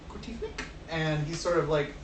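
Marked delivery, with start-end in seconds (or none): 0.1-0.5 Bert. Acted. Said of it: "Bert's like".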